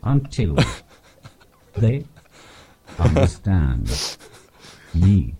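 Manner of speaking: slow, one word at a time; talk like this. Shown as a demonstration. Comedian mimics English holidaymakers addressing foreigners, slow and word by word. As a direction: leave a long pause after every single word. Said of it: "turn my iPad up really loud and talk like this".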